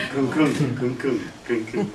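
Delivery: thump out a machine's groove; imitated washing machine. Man recalling dancing with the washing machine, imitated chugging. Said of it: "like that".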